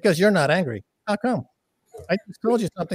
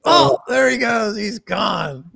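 mock announcer; 3 semitones higher, much slower than usual. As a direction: call it like he's vanished. Lights going out on Max.

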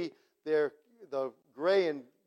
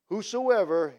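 loud proclamation; 2 semitones higher, 8 dB louder than usual. Acted. Preacher proclaiming scripture.

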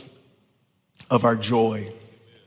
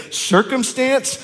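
calling out; 9 semitones higher, slower than usual. Acted. Addressing circumstance as person.

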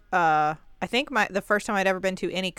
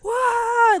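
startled whoa; 13 semitones higher, 4 dB louder than usual. Pretend. People freaking out at ghosts.

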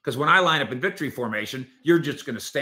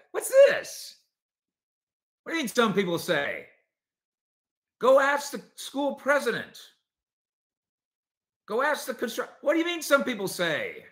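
high-pitched, incredulous challenge; indignant teacher; 10 semitones higher than usual. Acted. Journalism teacher to a kid who turned in hearsay, indignant. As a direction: take the student to task, pitch raised. Teacher scolding a student's story.

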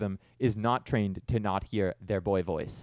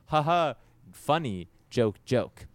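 slow mock laugh, each word set apart; forced joking; 2 semitones higher, 4 dB louder, slower than usual. Host acting out passing weirdness off as jokes, forced joking. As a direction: announce the jokes loudly and hollowly.

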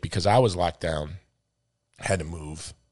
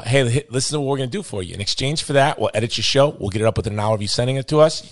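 loud, hammed-up Boston accent for a sales pitch; Boston accent imitation, played up and loud; mock Boston accent; 4 dB louder than usual. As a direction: play a brash Boston media guy, loud. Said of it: "this is how I talk if I were from Boston".

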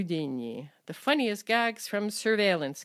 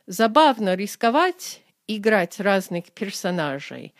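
actor musing on roles; 5 dB louder than usual. Shown as a demonstration. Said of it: "like when an actor talks about his roles".

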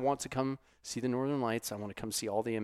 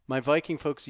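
higher, louder hail to the fans; louder call-out; 4 semitones higher, 5 dB louder than usual. Acted. Host hailing Norwegian fans, higher and louder. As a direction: call it out warmly loud.

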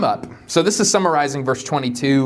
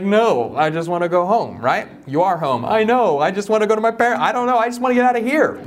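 high, fast, pleading whine; imitating her younger self, begging to leave; whiny homesick plea; 5 semitones higher than usual. Imitating herself begging her spouse to go home, in a high whine.

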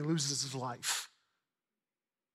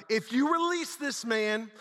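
slow, higher-pitched warning cry; drawn-out accusing cry, raised pitch; 5 semitones higher, slower than usual. Acted. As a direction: call it out slowly as a crowd's threat. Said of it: "the Jews cried out".

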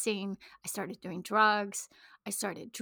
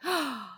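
horrified gasp; 5 semitones higher than usual. Real, not acted.

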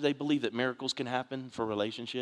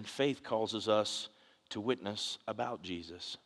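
slow emphatic; 6 dB quieter, slower than usual. Shown as a demonstration. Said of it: "Watch as I go on here".

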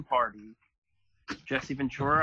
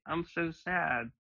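slow, softer mock-sad line; drawn out, quietly, with no real crying; unconvincing fake sadness; 5 dB quieter, slower than usual. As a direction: play a sociopath badly faking sadness. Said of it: "that's not crying".

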